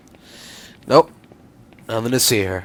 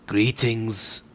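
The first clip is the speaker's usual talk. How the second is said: soft, drawn-out sultry woman's voice; trying out a sultry woman's voice; 2 semitones lower, 6 dB quieter than usual. Acted. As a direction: attempt a sultry feminine greeting, softly. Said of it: "trying to do like a sultry woman's voice".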